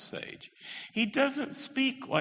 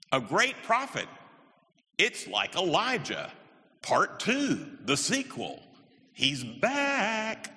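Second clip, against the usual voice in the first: excited crowd voice; 7 semitones higher, slower than usual. Retold or imitated. Crowd's reaction voiced in lecture.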